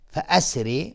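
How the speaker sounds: فاسر with a thin, light ر. Shown as a demonstration. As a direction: keep the ر in فاسر light before its kasra. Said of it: "را اینجا حکمش ترقیق است".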